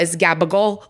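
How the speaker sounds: gabagool with clipped end, ga-ba-GOOL; New York Italian gabagool. Shown as a demonstration. Host teaching the New York Italian way, clipped gabagool. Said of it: "it's not capicola".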